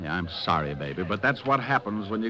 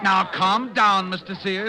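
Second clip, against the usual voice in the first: firm calm-down; 9 semitones higher, 5 dB louder, slower than usual. Acted. Breaking up a restaurant brawl.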